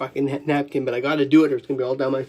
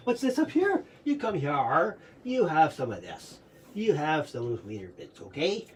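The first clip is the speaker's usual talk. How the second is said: quietly indulge a waiting dog; talking to dog; 3 semitones lower, 9 dB quieter than usual. Real, not acted. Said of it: "I'm gonna give the dog a fucking hot dog".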